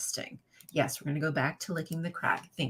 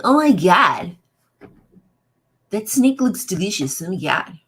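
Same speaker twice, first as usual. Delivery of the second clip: mock delight; 9 dB louder than usual. Snake looks delicious, mock excitement.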